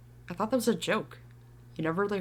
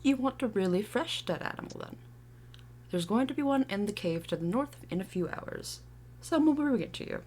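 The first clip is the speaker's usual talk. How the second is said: put-on British accent; 3 semitones higher, 3 dB quieter than usual. Tree advising youth on a dead animal, attempted British accent. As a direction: try on a British voice. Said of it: "Can you do a British accent?".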